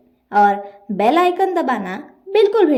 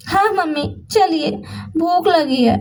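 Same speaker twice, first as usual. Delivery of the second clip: lightly voiced daughter, higher pitch; a touch of complaint in a raised voice; lightly acted daughter talking to her mummy; complaining daughter; 4 semitones higher than usual.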